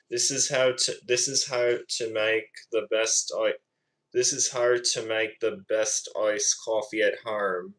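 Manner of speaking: amateur Aussie impression; Australian accent. Shown as a demonstration. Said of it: "trying to do a good Australian accent impression".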